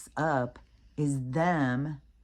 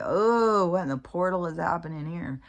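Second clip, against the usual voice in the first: loud, higher oh of mock alarm then settling; mock alarmed exclamation; 3 semitones higher, 4 dB louder than usual. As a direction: play up being spooked. Imitating reaction to mirror.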